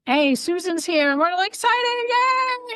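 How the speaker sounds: high-pitched, excited cheer rising into "yay"; exuberant family greeting. Retold or imitated. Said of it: "the Italian exuberant".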